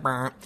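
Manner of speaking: low, soft vibrating brr; quiet motor-like buzz; imitated phone buzz. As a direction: mimic a phone buzzing on vibrate. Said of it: "just sitting there going like".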